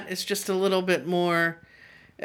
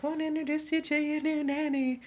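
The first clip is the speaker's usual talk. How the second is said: high, bad mock English accent; a hammed-up posh English mother; badly faked English accent, pitched up; terrible English accent; 9 semitones higher, 5 dB quieter than usual. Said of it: "Terrible, uh, accent".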